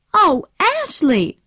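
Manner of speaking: high, slow tearful cry; a wailing, tearful Oh, Ashley. A narrator's reading. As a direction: Scarlett bursting into tears over Ashley. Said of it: "cried Scarlett and burst into tears".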